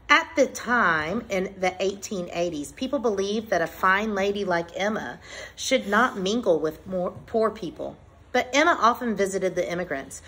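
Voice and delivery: measured, clearly phrased picture-book read-aloud; reading to children. Acted. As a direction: read it out to a class, pausing between phrases. Resumes reading book to class.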